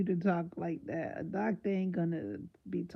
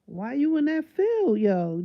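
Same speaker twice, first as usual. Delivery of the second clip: incredulous cry; 6 semitones higher, 7 dB louder than usual. Real, not acted. Incredulous at the doctor.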